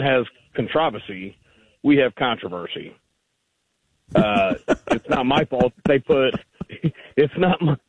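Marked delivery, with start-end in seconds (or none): 4.1-7.8 chuckling through the words; laughing. Real, not acted. Caller laughing as he jokes about emphasis, laughing. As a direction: laugh while you start the line.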